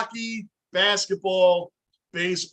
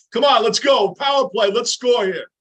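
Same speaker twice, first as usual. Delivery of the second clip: shouting; 3 semitones higher, 6 dB louder than usual. Real, not acted. Cheering on power play.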